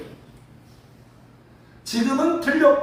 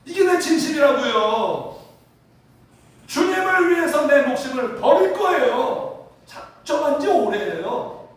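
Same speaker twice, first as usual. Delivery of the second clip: acted-out impassioned declaration, raised voice; earnest vow; 3 semitones higher, 4 dB louder than usual. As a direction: insist loudly on your devotion. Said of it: "진심이에요. 진짜예요". (결사각오로 진심을 호소하듯)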